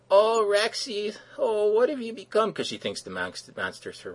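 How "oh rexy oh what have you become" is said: very high, slow falsetto lament; hammed-up falsetto heroine; swooning damsel. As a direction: play a fainting damsel crying out to her lost love. Sapphire sees the monster report.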